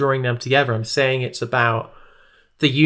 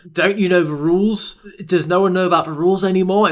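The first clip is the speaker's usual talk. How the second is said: Mark Corrigan; 4 semitones higher than usual. Retold or imitated. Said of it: "that's so Mark Corrigan".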